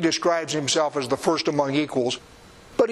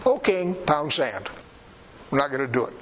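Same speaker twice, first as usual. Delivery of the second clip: mildly mock-rude refusal to the king; plain-spoken defiance, lightly acted; blunt and rude; 2 semitones lower than usual. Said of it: "It is literally that rude".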